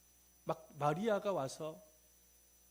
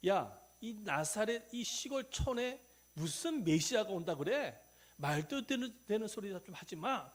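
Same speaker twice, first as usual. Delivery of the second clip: acted scornful dismissal, raised pitch; scoffing; 5 semitones higher, 5 dB louder, slower than usual. Nathanael scoffs at Philip's news of a Messiah from Nazareth, acted scoffing. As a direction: play a friend pooh-poohing the news. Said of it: "콧방귀를 뀌면서".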